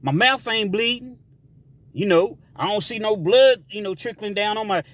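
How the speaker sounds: taunting dare. Retold or imitated. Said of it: "that was a saying back then".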